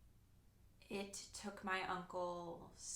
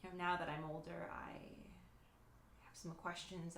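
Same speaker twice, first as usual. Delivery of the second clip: hushed aside. Acted. Soliloquy aside to audience.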